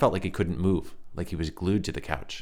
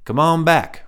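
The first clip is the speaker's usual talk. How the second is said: high, light, reedy call from the back; thin reedy stranger beckoning; 11 semitones higher, 11 dB louder, slower than usual. A narrator's reading. Stranger calling Ryan to the back, high reedy voice. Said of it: "in a light, reedy voice".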